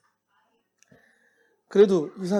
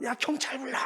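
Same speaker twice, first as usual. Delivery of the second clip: angry call for police; 9 semitones higher than usual. Retold or imitated. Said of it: "승질을 내는 거예요".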